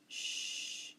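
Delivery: "Sh" as a soft, long hush; isolated digraph sound. Shown as a demonstration. Teacher repeating the quiz sound, soft drawn-out "Sh". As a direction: hold "Sh" softly, no vowel after. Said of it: "the sh sound".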